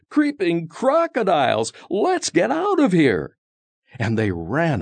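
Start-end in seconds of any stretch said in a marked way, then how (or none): 0.1-3.4 high panicked storybook yell. Acted. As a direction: cry out in fright, much higher. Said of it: "They yelled".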